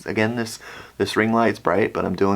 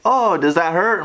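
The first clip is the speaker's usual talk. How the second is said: imitated nurse; 9 semitones higher than usual. Voices the nurse.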